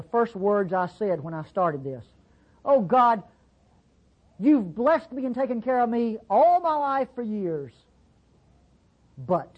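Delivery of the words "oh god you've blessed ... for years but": mock whining prayer. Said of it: "just as I'm whining and whimpering".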